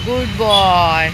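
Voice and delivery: slow, loud praise to a dog; long, lingering vowels, praising; drawn-out praise. Real, not acted. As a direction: stretch it out as praise for a pet.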